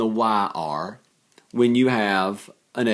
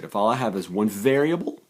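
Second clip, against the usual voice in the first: voice cracking up an octave. Real, not acted. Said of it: "and my voice just cracked".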